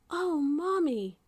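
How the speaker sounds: put-on high, slow childlike cry; a little girl calling out to Mommy; exclaiming. A narrator's reading. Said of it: "she exclaimed".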